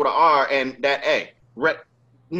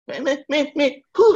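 calling after; 12 semitones higher than usual. Retold or imitated. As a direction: shout after someone walking away. Customer calling him back.

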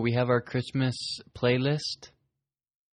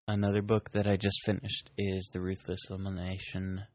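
talking through excess saliva; wet, spit-filled mouth; mouth full of spit. Real, not acted. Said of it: "I have so much spit in my mouth".

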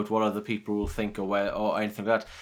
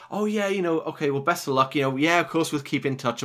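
higher-pitched imitation of polite promises; mock breezy farewell; 5 semitones higher than usual. Colleague parting from a workmate, mock-cheery promises. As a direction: toss off empty goodbyes in a lifted voice. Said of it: "it's easy to sort of say".

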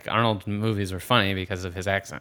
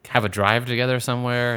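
higher, louder, mock hopeful question; mock eager wondering; 4 semitones higher, 4 dB louder than usual. Mocking fans who hope the partners stay together, in a hammed-up eager voice. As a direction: play up the fans' breathless hope. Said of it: "they're like".

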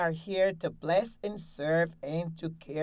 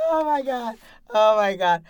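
delighted exclaim; 5 semitones higher, 10 dB louder, faster than usual. Real, not acted. After her big laugh.

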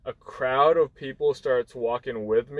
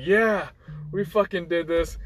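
pumped up; 4 semitones higher than usual. Retold or imitated. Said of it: "I was getting pumped up".

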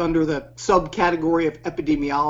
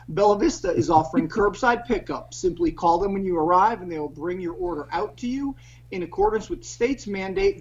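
ad read; 3 semitones higher than usual. Acted. Reading sponsor ad.

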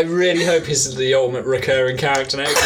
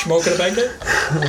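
higher mock Dutch accent; 4 semitones higher than usual. Podcaster attempts the assigned accent, mock Dutch accent. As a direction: try a silly Dutch accent. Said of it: "All right, Dutch".

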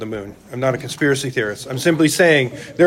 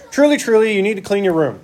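mock archaic scolding; 5 semitones higher, faster than usual. Preacher mocks a parent using Bible words, hammed-up. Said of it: "None of us walk around going".

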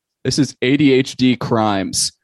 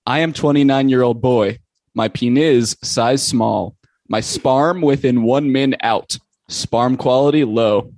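mock poetry recital. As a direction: recite it line by line like solemn verse. Recites a post as a poem.

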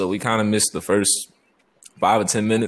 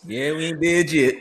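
tin can phone; 5 semitones higher than usual. Real, not acted. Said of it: "This nigga speaking through a tin can right now".

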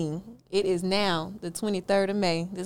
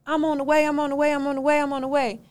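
higher, louder mocking of her stalling; lightly mimicked brush-off; mock hurried promise; 5 semitones higher, 4 dB louder, faster than usual. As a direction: parrot her breezy promise. Mimicking renter's repeated promise.

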